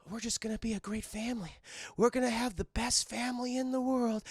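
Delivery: fast, soft dreamy dad voice; gushing about the family to come; mock hopeful dad. Streamer voicing Andre, dreamy and hushed.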